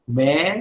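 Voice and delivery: "melakim" broken into me, la, kim with pauses; syllable by syllable. Shown as a demonstration. Teacher splits word into syllables.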